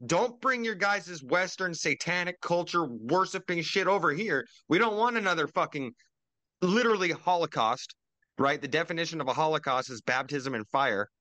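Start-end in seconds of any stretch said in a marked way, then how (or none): 0.1-7.9 higher, mock-outraged foreign leader refusal; mocking foreign governments. Podcaster voicing other governments refusing Western culture, mock indignant. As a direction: sneer it as a scornful government voice.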